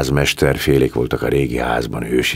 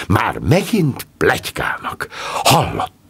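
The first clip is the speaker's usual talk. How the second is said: 1 angry; 8 semitones higher than usual. A narrator's reading. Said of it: "dühösen villogott".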